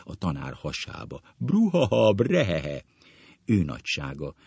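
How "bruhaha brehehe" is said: mock guffaw. Acted guffaws of reminiscing schoolmates.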